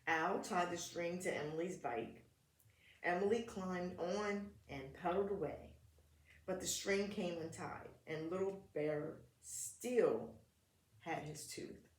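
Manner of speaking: put-on gentle read-aloud for kids; children's story narration; storybook reading. A narrator's reading. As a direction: read it like a picture book at story time.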